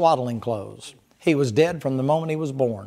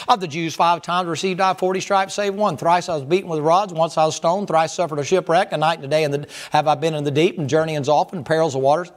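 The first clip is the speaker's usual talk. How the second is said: scripture reading. Acted. Reading scripture with rising fervour.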